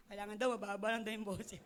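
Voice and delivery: laughing through the words. Real, not acted. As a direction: chuckle as you tell it. Laughs at her own story.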